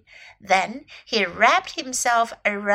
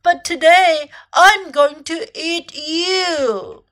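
slow, louder crocodile threat, pitched up; menacing crocodile; 4 semitones higher, 6 dB louder, slower than usual. A narrator's reading. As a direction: draw out the threat to the last word. Crocodile threatens to eat elephant.

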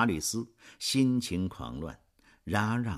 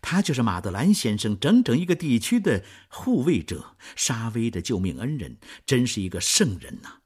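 bursting with delight, higher and louder; joyful exclaim; 3 semitones higher, 4 dB louder than usual. Acted. Marius learns his benefactor's identity, joyful outburst. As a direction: cry out in glad relief. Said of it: "马吕斯不禁欢呼起来".

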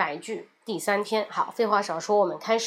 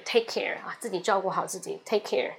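soft farewell; 3 semitones lower, 6 dB quieter than usual. Shown as a demonstration. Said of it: "男女朋友他们分手了".

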